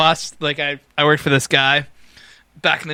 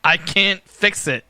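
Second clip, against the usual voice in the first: put-on strained Maine accent; 4 semitones higher, 3 dB louder, slower than usual. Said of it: "you sound constipated".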